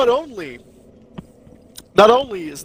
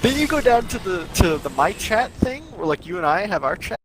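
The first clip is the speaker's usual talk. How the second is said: condescending tutorial. Pretend. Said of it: "Let me know if you need me to explain that to you".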